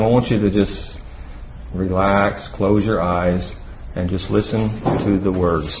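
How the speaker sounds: right in your ear. Real, not acted. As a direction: ease them into stillness. Asks audience to relax, listen.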